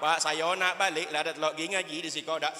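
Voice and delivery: half-sung mock blubbering to his father; mock sobbing wail. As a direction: wail it like a homesick child. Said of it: "Sambil melimeh".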